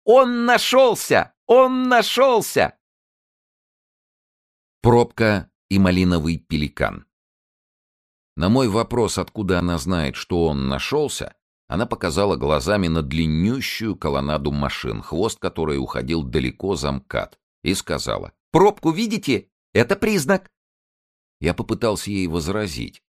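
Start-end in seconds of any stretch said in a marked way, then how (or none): 0.0-2.8 very high, loud, drawn-out squeal; squealing with joy. A narrator's reading. Zinulya squealing over the news, very high and slow. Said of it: "заверещала от радости". 18.5-20.5 higher-pitched paramedic voice; brisk nurse setting him straight; paramedic Zinulya. A narrator's reading. Zinulya correcting the patient, higher voice.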